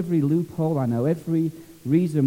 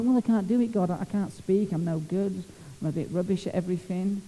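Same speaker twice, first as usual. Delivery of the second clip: whining Moses; 6 dB quieter than usual. Retold or imitated. Preacher mimics Moses whining his excuses to God, mock whiny. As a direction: whimper like a hopeless whinger. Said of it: "Moses was a right whinger".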